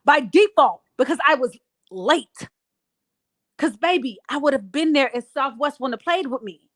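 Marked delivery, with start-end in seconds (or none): 0.0-2.5 louder, pointed and sarcastic; scolding Gail, loudly, for lying about the court case; heated callout. Real, not acted. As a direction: put her on the spot, hard. Calling out Gail directly.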